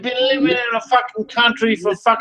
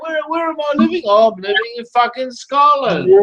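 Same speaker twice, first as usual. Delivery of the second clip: higher, whiny mock voice of the man he insults; mocking imitation; 3 semitones higher than usual. Taunting the old man he's arguing with, mocking higher whine. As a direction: ham up a dim, confused victim.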